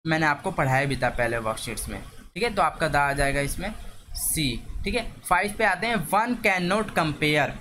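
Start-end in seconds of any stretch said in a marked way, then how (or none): 6.1-7.5 drawn out very slowly; slow dictation. Shown as a demonstration. Teacher reading question five aloud, very slow dictation. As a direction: dictate each word to the class.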